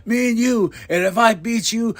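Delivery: high-pitched mock challenge; lightly voiced wrestling promo; imitating Jarrett. Wrestler challenging his rival to a match, imitated challenge. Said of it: "And he goes".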